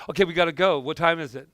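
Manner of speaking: mock impatient people in a hurry; mock hurried. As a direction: play the impatient busy person. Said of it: "they're sitting there going".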